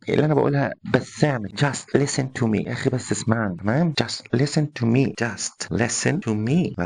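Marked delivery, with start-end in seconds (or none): 1.6-2.7 polite request. Shown as a demonstration. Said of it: "باسلوب مؤدب". 4.0-6.8 slow polite request. Shown as a demonstration. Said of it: "باسلوب مؤدب".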